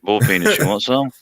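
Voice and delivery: down-home South Carolina twang, lightly imitated; imitated country South Carolina accent; thick South Carolina accent. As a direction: run "boiled peanuts" together as "bull penis" in Southern accent. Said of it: "got thick accent".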